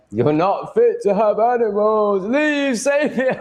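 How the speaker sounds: high, slow prissy scolding voice, hammed up; mocking outraged viewer. Streamer mocking a scolding viewer, high shrill parody.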